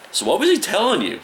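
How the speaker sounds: curious friends. Retold or imitated. Eager high mock friends.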